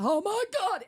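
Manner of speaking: high, loud startled outburst; retold shock. Woman retells stepping over a snake, startled outburst. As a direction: reenact a jump of horror.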